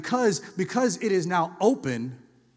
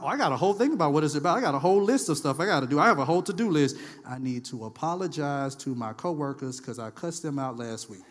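eager listener; 5 semitones lower than usual. Retold or imitated. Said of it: "you don't leave like".

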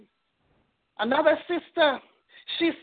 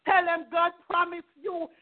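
crying while preaching; 3 semitones higher than usual. Real, not acted. Tearful preaching.

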